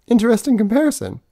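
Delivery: robot God. Acted. Reading the bot's answer.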